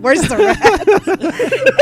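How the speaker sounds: high, loud, very slow mock panic; mom freaking out. Mom driving, imitated freaking out over a rat. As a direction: shriek it like a startled mom at the wheel. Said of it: "mom starts freaking out".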